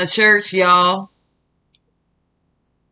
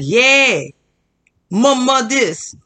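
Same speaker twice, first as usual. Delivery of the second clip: hype DJ; 6 semitones higher, slower than usual. Retold or imitated. Mimicking the church DJ firing up the crowd, lightly hyped. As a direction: call out to the crowd like a DJ, but only halfway. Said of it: "to hype the crowd up and was like".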